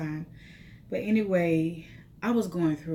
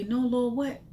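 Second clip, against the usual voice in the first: pleading with God; 4 semitones higher than usual. Retold or imitated. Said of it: "I began to say".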